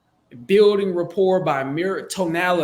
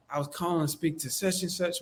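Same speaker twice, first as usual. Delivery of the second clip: too quiet; 7 dB quieter than usual. Acted. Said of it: "that's not gonna work".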